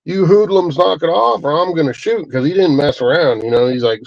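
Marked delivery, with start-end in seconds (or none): 0.1-2.3 grandpa's warning, lightly hammed up; mock yell. Grandpa warns unseen people across river, mild mock yell. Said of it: "he starts yelling across the river going".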